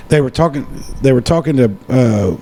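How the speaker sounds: talking with a swollen tongue; thick-tongued speech after dental work. Real, not acted. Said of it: "if my voice sounds weird, my tongue is swollen".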